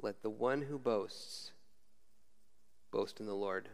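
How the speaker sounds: quiet reflective scripture reading. Shown as a demonstration. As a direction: let it sink in, hushed and slow. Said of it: "just take that verse with you".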